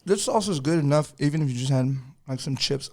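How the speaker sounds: talking with a mouth full of food; words through a big bite. Real, not acted. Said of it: "I got a mouthful of food".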